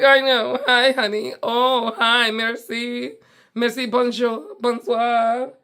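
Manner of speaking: gushing diva. Retold or imitated. Greeting the doting hotel staff, gushing and bubbly. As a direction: play the adored celebrity greeting staff. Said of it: "I'm like".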